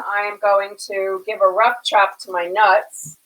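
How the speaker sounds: deadpan, everyday cooking-show delivery; matter-of-fact. Real, not acted. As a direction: state it matter-of-factly, no wink. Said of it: "you were so matter of fact".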